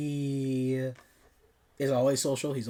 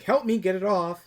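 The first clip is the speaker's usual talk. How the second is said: higher, louder mock-frantic plea; a hint of frantic panic, pitched up; 8 semitones higher, 7 dB louder than usual. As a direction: beg for help like something is clawing you, hammed-up. West fighting the cat.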